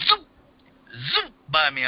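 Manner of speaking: imitated whizzing sound. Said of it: "I hear something going".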